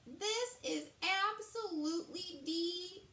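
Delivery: queen relishing each word of praise; queen savoring her soup. A narrator's reading. Queen to the chef, lingering over her first taste. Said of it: "the queen said".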